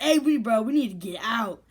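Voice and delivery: loud, high retold alarm easing off; urgent warning. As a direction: call your friend away in a hurry. Retells urgent warning while chased.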